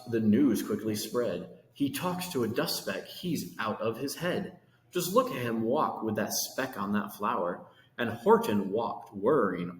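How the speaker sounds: lively rhyming read-aloud; storybook reading. A narrator's reading. Reading Horton to kids, lively rhyming storytelling. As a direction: read the verse to children with bounce. Reads picture book aloud.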